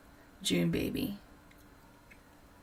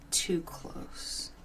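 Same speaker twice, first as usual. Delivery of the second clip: soft unvoiced punchline; whispered aside; 2 semitones lower, 8 dB quieter than usual. Vlogger whispering a joke to viewers about family visits.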